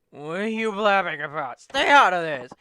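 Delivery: put-on drunk yelling to butt out; angry drunk shout. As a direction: bark it like a rowdy drunk. Voicing drunks telling him off.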